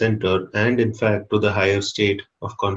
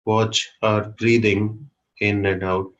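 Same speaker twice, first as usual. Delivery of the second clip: guided meditation. Real, not acted. Teacher leading a group to watch their breathing, calm guided meditation. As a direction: guide them inward calmly, with long pauses.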